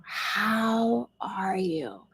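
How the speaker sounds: slow, breathy whisper; very slow whispered ask. Shown as a demonstration. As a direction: whisper the question to yourself. Asks herself the question, whispered.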